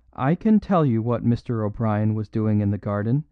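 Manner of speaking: steady, lightly quivering voice; clear quivering voice. Acted. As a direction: speak publicly with courage. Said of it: "clear, quivering voice".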